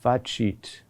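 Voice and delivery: facit with the accent on fa, cit lighter; stress on first syllable. Shown as a demonstration. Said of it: "the accent on the next to last syllable".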